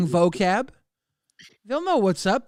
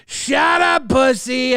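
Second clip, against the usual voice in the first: shouted catchphrase; 3 semitones higher, 4 dB louder, slower than usual. Acted.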